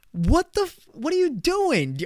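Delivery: high, laughing disbelief; a real what-are-you-doing squeal at the listing; incredulous laughing outburst. Real, not acted. Incredulous at photo-less listing.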